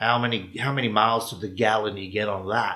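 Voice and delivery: full-on put-on American accent. Retelling what a Korean American man asked at the car, full American accent. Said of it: "This full American voice comes out".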